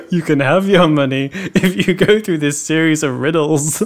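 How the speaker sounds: lightly mocked villain with laughter in it; hint of a riddling supervillain; supervillain banker. Out-of-work villain challenging a bank customer, mock supervillain banker. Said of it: "bankers are all out of work supervillains".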